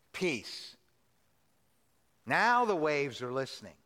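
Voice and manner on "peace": soft, low, steady single word; calm quiet command. Retold or imitated. Pastor voices Jesus quietly commanding the storm.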